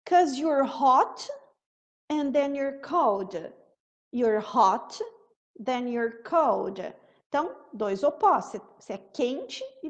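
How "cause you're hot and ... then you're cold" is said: 'Cause you're hot, then you're cold, devagar; slow lyric demo. Shown as a demonstration. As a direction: lay out the lyric line slowly. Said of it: "reciting the lyric slowly". (trecho da música dito devagar)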